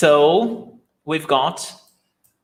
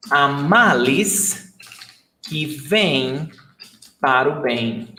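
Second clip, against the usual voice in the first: slow, phrase by phrase; 2 semitones lower than usual. Shown as a demonstration. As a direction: say "Há males que vêm para o bem." slowly with pauses between phrases. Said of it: "teacher models saying slowly, phrase by phrase".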